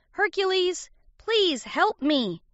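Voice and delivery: high, drawn-out cry for help; pleading cry. A narrator's reading. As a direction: beg a hero to save you. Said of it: "he cried".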